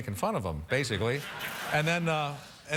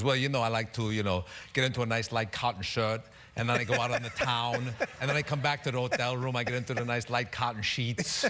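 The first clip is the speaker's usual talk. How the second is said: a light hint of Arnold's Austrian accent; lightly voiced Austrian accent, easygoing; Arnold Schwarzenegger impression. Arnold on TV telling what he does on the road, light Austrian accent. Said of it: "He goes".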